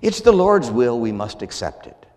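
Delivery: mock pious resignation; sarcastic. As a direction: drip with sarcasm. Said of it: "you notice the sarcastic way in which I say that".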